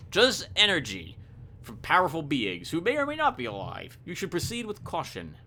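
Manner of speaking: measured game-book narration; story narration. A narrator's reading. Reading the spirit jar scene, story narration. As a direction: read the eerie tale out evenly. Reads the game's story text.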